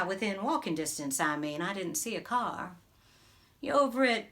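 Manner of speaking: a lightly played small-town beautician, gossiping to a newcomer; a hint of a gossipy Southern salon lady holding court; chatty Southern hairdresser. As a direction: talk like the salon owner who knows everyone's business. Character monologue, beauty salon owner.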